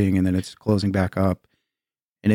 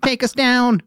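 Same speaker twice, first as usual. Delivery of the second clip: alien voice; 10 semitones higher than usual. Acted. Voicing aliens spotting him.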